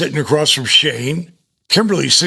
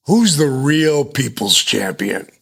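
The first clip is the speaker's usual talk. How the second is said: arena promo voice; slower than usual. Pretend. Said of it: "you only hear my voice say".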